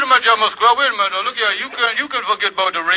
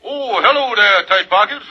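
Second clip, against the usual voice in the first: playing the Kingfish; 2 semitones higher, 4 dB louder than usual. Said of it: "when I'm playing the Kingfish".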